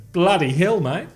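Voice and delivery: attempted Kiwi exclamation; mock New Zealand accent. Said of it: "And the New Zealanders were going".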